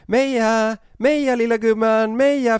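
high, loud coaxing call, drawn out; lockande rop. Retold or imitated. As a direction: re-enact calling a dear little one over from afar. Kallar hunden bort från spyan. (högt, ljust lockrop)

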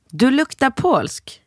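high, slow mock child voice; son's voice. Mother imitating her son in the lift, high and slow. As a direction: squeak it out like the kid.

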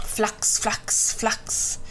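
whispery, voiceless 'flax' wingbeats; flapping wing sounds. A narrator's reading. Reader sounds the crow's wings for children, voiceless flapping. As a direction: puff out each flap softly.

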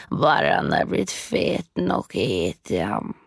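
lightly voiced scolding witch; bossy witch. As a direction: order her up, menacing. Witch ordering Grete about.

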